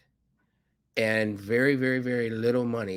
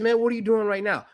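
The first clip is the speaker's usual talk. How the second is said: quoting Rajiv; 9 semitones higher, 4 dB louder, faster than usual. Retold or imitated. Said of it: "He said".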